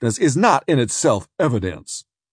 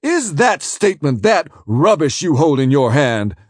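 high, loud indignant tirade; outraged counsel; 6 semitones higher, 5 dB louder than usual. Acted. Defence counsel rages at the prosecutor, high and loud. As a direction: tear into him, scandalised.

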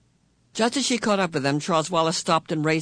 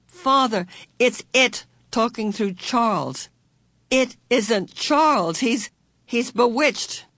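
desperate pleading; 7 semitones higher, 3 dB louder, slower than usual. A narrator's reading. Meg desperately pleads with father.

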